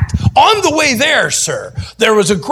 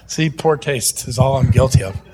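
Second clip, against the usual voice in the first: ordinary delivery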